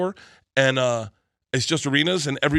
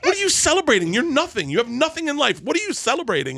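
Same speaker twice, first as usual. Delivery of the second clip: hammed-up dad tearing into his son; imitating angry dad; 13 semitones higher than usual. Father scolding son on his birthday, mock angry. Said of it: "He goes".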